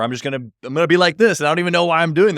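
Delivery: inner voice rant. Retold or imitated.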